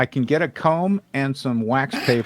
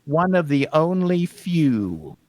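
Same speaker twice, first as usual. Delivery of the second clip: Wile E. Coyote; 4 semitones higher than usual. Acted. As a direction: stretch the words with cartoon self-importance. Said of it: "I'm gonna be like the Wi-, Wile E. Coyote voice".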